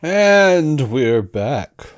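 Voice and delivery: slow drawn-out radio announcer; old-timey announcer. Shown as a demonstration. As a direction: announce it like a fifties broadcast. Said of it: "I always like those old, those old-timey announcer voices".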